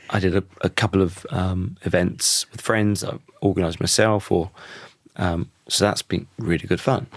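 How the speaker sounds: hoarse, croaky voice. Real, not acted. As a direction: talk through a croaky throat. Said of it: "I've got a bit of a croaky voice".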